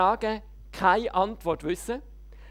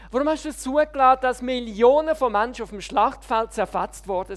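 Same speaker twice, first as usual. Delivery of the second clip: retold shouting. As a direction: rant at God from a soapbox. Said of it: "angefangen zu schreien".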